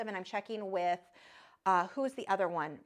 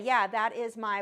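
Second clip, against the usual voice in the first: normal talking voice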